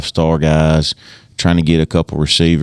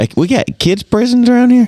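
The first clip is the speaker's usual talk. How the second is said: surprised; 3 dB louder than usual. Real, not acted. Surprised question about kid prisons.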